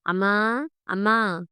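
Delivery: understated call to mother, first one rising; calling out loudly. A narrator's reading. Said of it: "గట్టిగా అరిచాడు".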